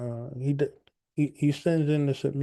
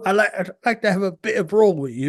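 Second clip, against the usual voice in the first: put-on British accent; 5 semitones higher, 3 dB louder than usual. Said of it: "He's like".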